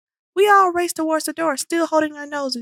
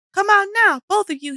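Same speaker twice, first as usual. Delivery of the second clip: louder stern yell; 5 semitones higher, 4 dB louder than usual. A narrator's reading. Principal yelling into the toilets, impatient. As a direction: order them out firmly. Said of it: "he yells again".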